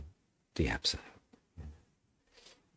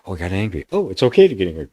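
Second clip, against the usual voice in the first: lightly voiced self-talk, louder; mock spiritual ego; 6 dB louder, faster than usual. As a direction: act out the mind excusing anger. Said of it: "It's like".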